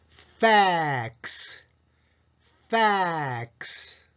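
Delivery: ファックス as a slow English "fax" with long vowel; English-style fax. Shown as a demonstration. Teacher modelling the quiz answer, slow English fax. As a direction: stretch the a in ファックス, teeth on lip for f. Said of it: "です".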